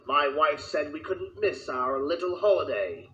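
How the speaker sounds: pompous reading of the letter; reading a letter aloud. Acted. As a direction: read the note out grandly. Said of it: "how did that sound".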